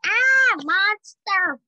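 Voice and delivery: high frightened yell; scream at a monster. A narrator's reading.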